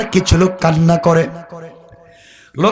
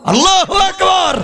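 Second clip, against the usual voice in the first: exclaimed takbir; 11 semitones higher than usual. Real, not acted. Preacher calls the takbir to the congregation, ringing cry. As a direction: send it soaring out over the crowd.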